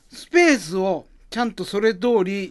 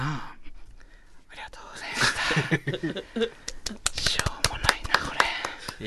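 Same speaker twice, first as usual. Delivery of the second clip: whispered thanks; 9 dB quieter than usual. Real, not acted. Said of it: "bashful after performance".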